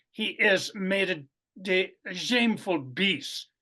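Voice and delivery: mock Russian accent for a Bolshevik, slowing on de shameful beast. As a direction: professor reading a Bolshevik's taunt in a Russian accent. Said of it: "kind of a Russian accent".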